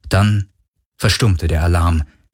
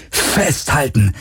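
drawn-out, higher-pitched shout, held in volume; yelled warning; 4 semitones higher, slower than usual. A narrator's reading. Galen warns Kirai as the ship plunges, yelled warning. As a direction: stretch it out as an urgent order. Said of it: "brüllte er".

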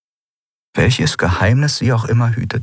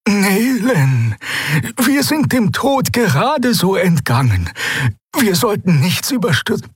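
high, strained character voice; high-pitched, worried warning; old healer, cautioning; 13 semitones higher than usual. Acted.

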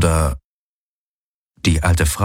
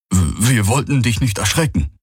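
lightly voiced young alien, stammering and higher; junger Vierarm; 4 semitones higher than usual. A narrator's reading. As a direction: stumble into a timid apology. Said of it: "sagte der jüngere Vierarm". (leicht angedeuteter junger Vierarm, stammelnd und höher)

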